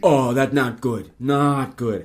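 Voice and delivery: loud, slow Filipino nurse voice; Filipino accent. Retold or imitated. Nurse lamenting the patient's diagnosis, loud Filipino accent. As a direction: weigh each word in a heavy Filipino accent. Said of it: "that's a very good Filipino accent".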